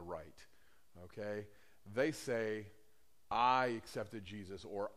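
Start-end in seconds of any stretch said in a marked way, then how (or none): 3.3-4.6 slow, drawn-out I; stress on I. Retold or imitated. Preacher quoting believers who credit themselves, stress on I. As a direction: lean on the word I. Quote stressing the wrong person.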